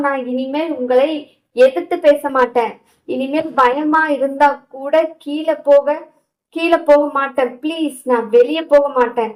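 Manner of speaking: plead, scared, to be let in; frightened pleading. Acted. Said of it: "அவள் கத்தி கொண்டிருப்பது".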